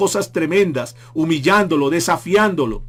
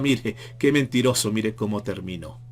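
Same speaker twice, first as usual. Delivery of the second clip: lower, softer sneer; scornful mockery; 4 semitones lower, 5 dB quieter than usual. Preacher voicing detractors sneering at the cross, low scornful mockery. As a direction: sneer at the fallen man. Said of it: "seguramente se burlaron y decían".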